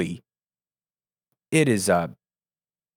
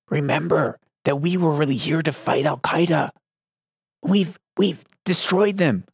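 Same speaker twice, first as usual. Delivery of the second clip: hushed old politician imitation, rising higher; Biden whisper; 5 semitones higher than usual. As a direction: murmur it into the mic like the president. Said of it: "I'm gonna do a Biden here".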